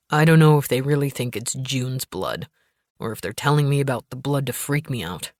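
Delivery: a hint of a tense man on the phone; husband voice. Gabe voiced lower.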